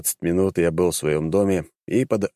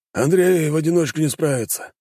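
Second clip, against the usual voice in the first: higher, worried nobleman voice; doubtful prince; 9 semitones higher than usual. A narrator's reading. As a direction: voice a fretting prince. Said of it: "Пожарский покачал головой".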